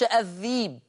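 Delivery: الذيب: الهمزة ياء ساكنة، ذِيب; قل الذيب بياء بدل الهمزة; الذيب بالياء. Shown as a demonstration. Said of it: "يقرأ ورش الذيب". (الذيب بإبدال الهمزة ياء)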